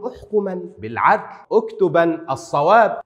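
احكما as "uhkuman", اكتبا as "uktuban"; short single n closing احكما and اكتبا; light emphatic nun. Shown as a demonstration. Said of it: "أما عندما أخففها أقول".

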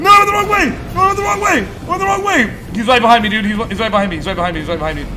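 high, loud desperate yelling; panicked screaming. Real, not acted. Player caught by the monster, desperate screaming. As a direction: yell in despair as you're caught.

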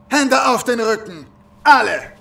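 loud, curt command; barked order. Acted. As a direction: snap the order at the prisoners.

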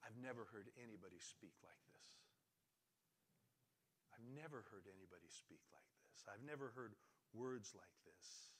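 soft, low, amazed reply; awed hush. Acted. Arresting officer to his superiors after hearing Jesus, hushed awe. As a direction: answer very quietly, as if captivated.

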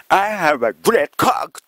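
put-on slow, proud Japanese-accented English. Prime minister proudly addressing world leaders in slow Japanese-accented English. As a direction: announce it slowly, word by word, in katakana English. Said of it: "グレッツェンコは".

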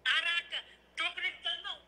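high, thrilled, can't believe it; squealing with excitement; excited disbelief. Real, not acted.

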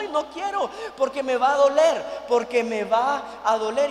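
mock whine that it will hurt; whiny refusal. Husband quoting his wife refusing the needle, mock whine.

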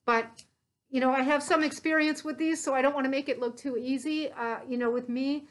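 muffled behind respirator; speaking through filter mask; through a face mask. Real, not acted. Seen 5: white respirator mask worn over nose and mouth throughout.

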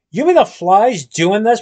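slow, loud frightened cry; panicked scream. Acted. Prados floating upward, screaming at Willie in panic. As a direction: shriek it in disbelief. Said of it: "Prados screamed".

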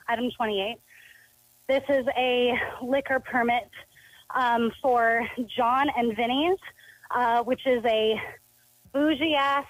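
breathy, talking while walking; a little out of breath, breathy. Real, not acted. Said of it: "forgive me if I sound breathy, I'm walking".

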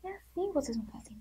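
quick whispered aside; hushed aside. Acted. Teacher whispering the method to pupils. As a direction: let them in on the trick.

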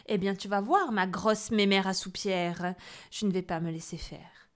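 loud defiant threat. Acted. Boy vowing revenge on the witch, defiant. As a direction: swear revenge. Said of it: "ronchonna Pierre".

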